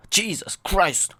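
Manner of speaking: high, loud, drawn-out exclamation; slow, loud outburst at yourself; exasperated shout. Real, not acted. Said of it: "Why am I shouting?".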